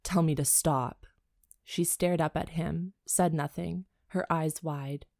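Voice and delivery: even, measured read-aloud; story narration. A narrator's reading. Co-host reads a spicy book to listeners, measured narration.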